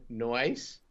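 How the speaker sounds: mock Australian "Noise?" for "nice"; Australian accent. Joking after the accent teasing, mock Australian accent. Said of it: "it sounds like no ice".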